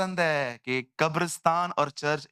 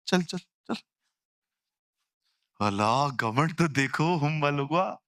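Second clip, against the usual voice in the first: mocking scorn; 2 semitones lower than usual. Mocking proud replies.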